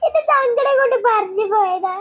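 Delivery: a touch of crying in the voice; tearful. Acted. Sister confessing she spoke out of sorrow, tearful. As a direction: explain yourself through tears. Hurt girl explains through tears.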